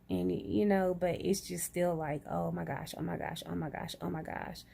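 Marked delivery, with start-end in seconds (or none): 2.3-4.6 soft, quick repeated worry; retold anxious muttering. Patient replaying her nerves in that moment, quiet anxious muttering. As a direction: mutter it under the nerves, lightly acted. Retelling anxious thoughts before surgery.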